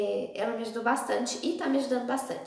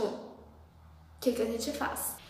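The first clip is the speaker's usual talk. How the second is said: hushed, slow frightened whisper; panicked whisper; 3 semitones lower, 11 dB quieter, much slower than usual. Retold or imitated. Cousins frozen as mom waits at door, whispering. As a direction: breathe it out with no voice, frozen.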